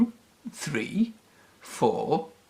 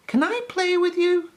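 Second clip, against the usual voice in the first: tag. A narrator's reading. Peppy asks the squirrels.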